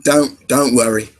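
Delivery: attempted Cockney accent; rough go at Cockney. Shown as a demonstration. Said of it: "Cockney, it's more".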